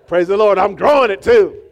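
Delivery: laughing loudly. Real, not acted. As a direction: laugh through it. Laugh heard on lines.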